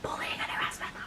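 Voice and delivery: unvoiced, hushed repeat of the charge; disbelieving whisper. Real, not acted. Repeating the warning to viewers in a stunned whisper. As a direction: breathe it out in disbelief.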